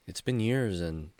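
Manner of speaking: trailing into soft sadness; subdued regret. Acted. Storyteller ending tale of lost best friend, subdued and sad. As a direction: let it fade quietly with regret.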